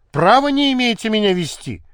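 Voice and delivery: voiced indignant shout; shouting protest. A narrator's reading. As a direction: cry out in protest at the officers. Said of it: "закричала Анюта".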